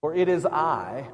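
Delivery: high, loud and ringing; a loud high-pitched declaration of comfort; booming proclamation. Acted. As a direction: proclaim it like a voice over the storm. Jesus reassures frightened disciples.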